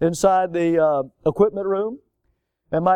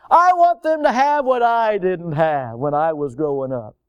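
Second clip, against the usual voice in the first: imitated parent. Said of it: "we don't wanna go through those things".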